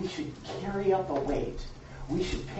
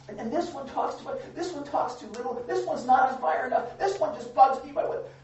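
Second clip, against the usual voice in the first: mock petty grumbling; 5 semitones higher than usual. Mock complaining church member.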